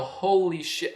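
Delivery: fangirl gasp. Retold or imitated.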